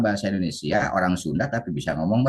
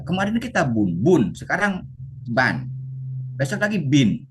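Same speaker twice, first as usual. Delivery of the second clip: confused student complaining; 6 semitones higher than usual. Retold or imitated. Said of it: "kata muridnya".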